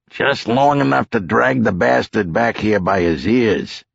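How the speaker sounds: lightly voiced no-nonsense lawman; cop in command. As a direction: tough talk to the pilot.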